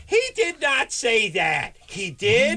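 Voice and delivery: high slow gossipy squeal; gossiping nurse. Retold or imitated. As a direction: shriek it like a scandalized nurse. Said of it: "it just sounds like this".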